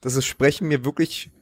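numb from the dentist. Real, not acted. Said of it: "Meine Zunge liegt so schwer in meinem Mund".

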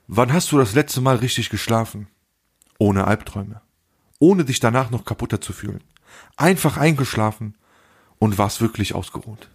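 measured reading with pauses between phrases; quote reading. Acted. Reading an Instagram quote to co-host, measured recital. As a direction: read it out line by line, pausing.

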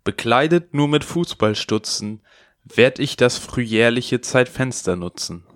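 poem recital. Acted. Opens with a rhymed poem.

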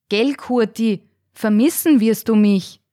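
insistent. Acted. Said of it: "wiederholte Alfred eindringlich".

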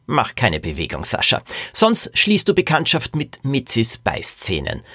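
measured menacing warning; warning threat. Acted. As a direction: warn a rival to freeze. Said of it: "warnte der Tierlehrer seinen Rivalen".

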